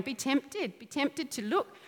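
soft coaxing murmur; tempting hag voice. Pretend. Old hag whispering temptation to the listener, soft and coaxing. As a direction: lure the listener quietly. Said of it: "that's the old hag going".

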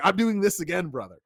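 a hint of wrestling promo; lightly voiced wrestling promo; wrestler promo voice. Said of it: "Gilbert Ivel style".

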